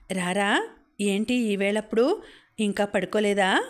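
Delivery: gently acted fatherly concern; mildly affectionate. Father greeting his daughter late at night, mildly affectionate. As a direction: ask with a touch of affection. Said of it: "ఆప్యాయంగా అడిగాడు".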